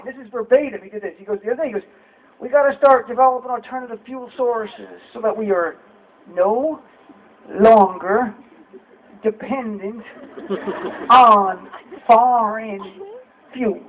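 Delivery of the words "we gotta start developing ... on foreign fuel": mild Bush impression with the last words stretched out slowly; lightly imitating Bush, slowing down for the important part. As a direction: drag the final words out one at a time like Bush. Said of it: "he'd slow down his speech pattern".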